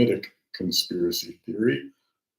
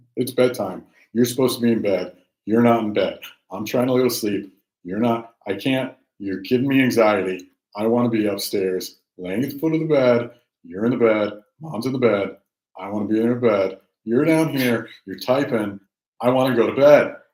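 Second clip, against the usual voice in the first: put-on dog's voice; 2 semitones higher, 4 dB louder than usual. Owner voicing his dog, who comes to fetch him to bed, voicing the pet dog. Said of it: "That's what he's saying".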